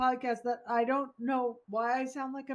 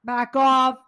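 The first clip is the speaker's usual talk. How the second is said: mock rat snapping; 6 dB louder than usual. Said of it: "It was like".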